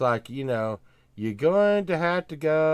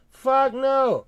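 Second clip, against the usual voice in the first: higher and louder, a blunt outburst; loud exasperated no; 12 semitones higher, 8 dB louder than usual. Real, not acted. Host snapping back at friends about court, loud. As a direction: shut the idea down hard.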